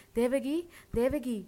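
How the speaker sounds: high, loud, slow call; stretched-out shout of the name. A narrator's reading. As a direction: call urgently through a closed door. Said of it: "என்று கூப்பிட்டபடி அம்மா கதவை தட்டினாள்".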